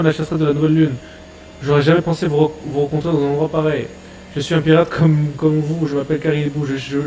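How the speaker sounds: a lightly voiced, pleading fanboy pirate; eager pirate pleading. Caribou begging the crew, lightly voiced and eager.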